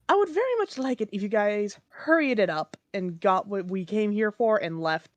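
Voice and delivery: put-on British Elvish accent. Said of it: "speaking in a slightly off British, Elvish voice".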